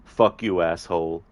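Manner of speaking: mild mock snarl at normal volume; lightly voiced movie henchman spitting an insult; villain's insult. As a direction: toss the insult back as the thug. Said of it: "the Arnie movie scene impression".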